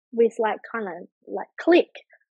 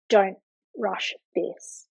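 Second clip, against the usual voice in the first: slow, measured, slightly lower; slow self-instruction; 3 semitones lower, slower than usual. Retold or imitated. Mother telling herself not to hurry in labour, slow and deliberate. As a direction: pace each word out deliberately.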